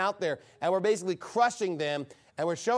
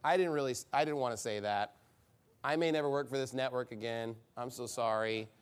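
low, soft, meek apology; hushed, sheepish mock apology; mock cowering apology; 7 semitones lower, 6 dB quieter than usual. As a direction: imitate cowards backing down, voice dropped low. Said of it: "as soon as the heat comes".

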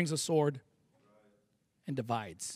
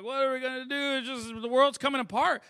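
mock freaking out; 2 semitones higher than usual. People start freaking out.

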